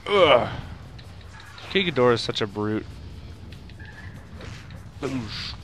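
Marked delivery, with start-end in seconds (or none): none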